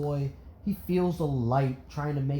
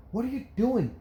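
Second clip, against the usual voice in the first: mild mock yell; 9 semitones higher than usual. A narrator's reading. Inko yelling at husband leaving car, restrained yell. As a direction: call after him in alarm. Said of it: "Inko yelling".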